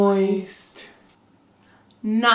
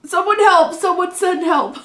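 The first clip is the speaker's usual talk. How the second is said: laughing plea; 7 semitones higher, 4 dB louder than usual. Real, not acted. Mock plea while laughing.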